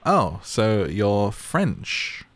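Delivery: normal talking voice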